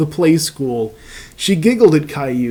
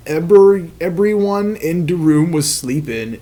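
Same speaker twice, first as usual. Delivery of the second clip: put-on babyish accent. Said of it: "in his babyish accent".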